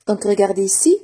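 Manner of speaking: unvoiced whispered aside. Real, not acted. Teacher whispering to the class to look here. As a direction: breathe it without voice.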